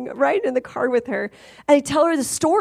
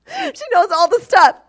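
laughing; 8 semitones higher, 5 dB louder than usual. Real, not acted. Laughing about her online snooping.

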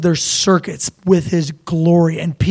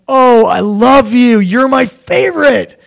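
higher-pitched, drawn-out adoring gush; gushing father; 5 semitones higher, 3 dB louder, slower than usual. Acted. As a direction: gush with love as a doting father. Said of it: "the father's like".

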